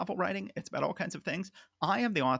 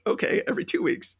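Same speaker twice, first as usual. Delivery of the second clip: mock bargaining; 5 dB louder than usual. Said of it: "and he's like".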